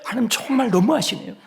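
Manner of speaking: high, quick put-on grumble; mock complaining. Worshipper complains to God after one sung line, mock complaining. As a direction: switch straight from hymn to whiny protest. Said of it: "한 소절 부르고 원망해".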